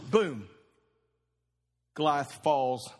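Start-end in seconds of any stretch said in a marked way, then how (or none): 0.1-0.5 boom, dropped low and heavy; loud boom. Shown as a demonstration. Preacher repeating the stone's hit, a low heavy boom. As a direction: let the boom fall low and final. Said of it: "loud, and".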